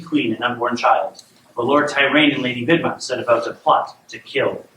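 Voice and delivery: measured storybook reading; storyteller setting up a royal tale; bedtime story narration. A narrator's reading. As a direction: read a fairy tale aloud to a child.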